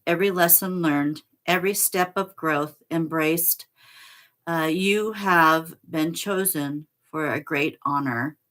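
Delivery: measured, earnest reading of a sacred text; solemn card reading. Acted. Reading the card's message to Michael, in solemn reading voice.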